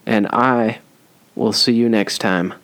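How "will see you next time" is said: "see" with a lisped, whistling S. Real, not acted. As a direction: let the S in "see" whistle like a lisp. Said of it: "my S did a really big lisp. Like a little whistle".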